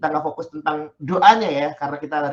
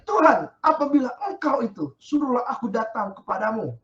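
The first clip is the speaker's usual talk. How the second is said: eager call; 4 semitones higher than usual. Acted. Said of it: "berseru dan menjawab dia".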